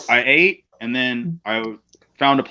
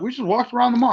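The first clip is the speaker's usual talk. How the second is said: higher, breezy imitation of the others; mock airy reply; 11 semitones higher, faster than usual. Wrestler mimicking his carefree partners, higher and breezy. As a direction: airily brush off the question, lightly mocking. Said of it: "We're like".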